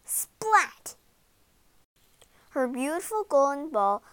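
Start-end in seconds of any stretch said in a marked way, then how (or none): 0.0-0.9 high, punchy sound-effect word; exclaimed splat. A narrator's reading. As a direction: make the splat burst out. Narrator voices the fall.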